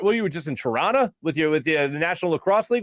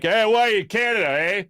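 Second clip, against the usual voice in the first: mock Canadian accent, pitched up at the start; Canadian fella; 5 semitones higher, 3 dB louder than usual. Border guard to a traveler, Canadian accent. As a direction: lightly imitate a Canadian fella. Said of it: "a Canadian fella".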